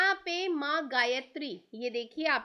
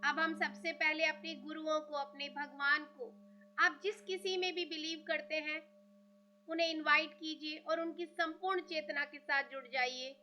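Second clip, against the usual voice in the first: guided meditation; 6 dB quieter than usual. Real, not acted.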